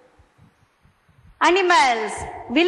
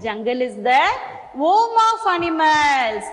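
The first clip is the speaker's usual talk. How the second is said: slow repeat; 3 semitones lower, much slower than usual. Shown as a demonstration. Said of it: "teacher repeats model sentence".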